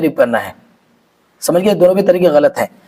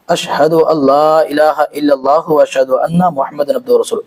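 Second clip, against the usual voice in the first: slow prayer recitation; 4 semitones lower than usual. Shown as a demonstration. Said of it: "इस तरह से पढ़ना है".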